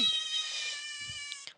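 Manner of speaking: giddy squealing laughter; high shrieking laugh. Real, not acted. Laughing after the scare.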